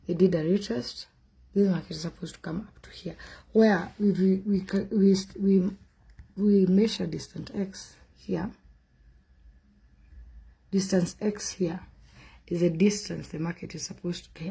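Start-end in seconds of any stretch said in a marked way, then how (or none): 3.5-14.5 adrenaline shakes. Real, not acted. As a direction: voice shaky from trembling hands. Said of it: "I'm shaking".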